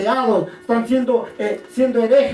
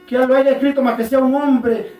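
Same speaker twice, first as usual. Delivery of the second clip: raised preacher's delivery in short bursts; emphatic preaching; 3 semitones higher, 4 dB louder than usual. Real, not acted. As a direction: press each phrase on the congregation. Keeps preaching to congregation. (prédica enfática, con pausas)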